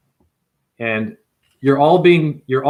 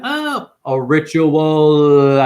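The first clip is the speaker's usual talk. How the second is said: mock awed voice; 5 dB louder, much slower than usual. Mocking the viewer's naive reaction.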